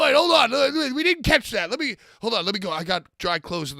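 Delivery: mock shout. Mock baptism retake.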